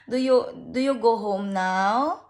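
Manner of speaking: mother lightly voicing her crying daughter, slow; a hint of a small child begging through tears; slow, pleading little girl's voice; crying child's plea.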